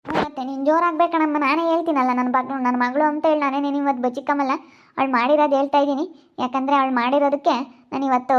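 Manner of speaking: mother scolding her own daughter loudly. Acted.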